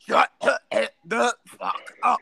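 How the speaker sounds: high, slow mock yell; retold outburst. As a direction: drag out each word in hammed-up fury. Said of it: "Anthony's like".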